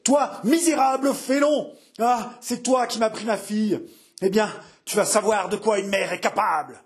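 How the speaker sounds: high-pitched, enraged mother's accusation; furious howl. A narrator's reading. Mother to the felon who took her daughter, furious howl. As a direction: hurl the accusation high, then threaten. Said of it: "hurla-t-elle".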